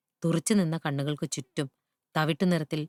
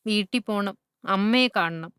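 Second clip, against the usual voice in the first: lightly voiced pleading child, higher pitch; a touch of a child's insistent plea, raised and louder on mother; 4 semitones higher, 4 dB louder than usual. A narrator's reading. Lost child tells the loris of wanting home and mother, mildly pleading.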